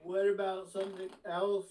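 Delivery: a mild suggestive offer; suggestively. Acted. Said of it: "I say suggestively".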